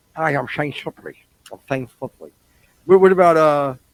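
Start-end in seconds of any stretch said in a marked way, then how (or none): 0.2-2.4 put-on lisping speech. Answering a joke about someone with a lisp: put-on lisp. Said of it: "Marry somebody with a lisp".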